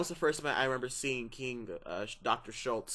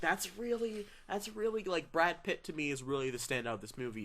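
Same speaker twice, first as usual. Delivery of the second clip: mock high voice; 5 semitones higher than usual. Mock voice, much higher.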